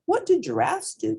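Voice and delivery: calling up. A narrator's reading. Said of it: "called the little hippo".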